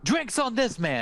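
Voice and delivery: announcing to the room. Acted. Barkeep announces free drinks to the tavern, calling out. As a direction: call it out to the whole bar.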